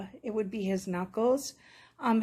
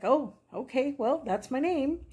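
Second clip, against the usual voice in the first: higher, playful pretend dog voice; lightly voiced dog; 4 semitones higher than usual. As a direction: speak for a dog readily accepting it. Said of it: "right away he's like".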